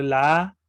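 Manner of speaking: "A" held long, about double length; long vowel "A", demonstrated; lengthened a. Shown as a demonstration. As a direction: stretch the vowel "A" out. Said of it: "se alarga".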